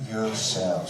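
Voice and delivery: put-on a light take on a grand old compère, stretched out slowly; mild mock showman announcing slowly; Leonard Sachs impression. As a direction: drawl the words out like a lavish variety host, only lightly voiced. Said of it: "Leonard Sachs always used to say".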